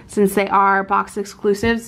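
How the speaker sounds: ordinary talk, nothing marked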